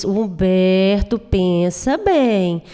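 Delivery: Huberto and pensa bem stretched very slowly; slow inner voice. Retold or imitated. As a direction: drag out Huberto, pensa bem like a warning to himself. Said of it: "sinto algo que me diz".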